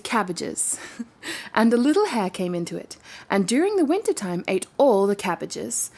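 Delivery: steady storybook reading voice; story narration. A narrator's reading. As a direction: read it like a bedtime tale. Reading a fairy tale aloud.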